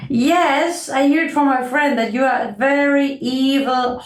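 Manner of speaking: lightly voiced stern bird; disapproving bird. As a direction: tell the midge off with mild disdain.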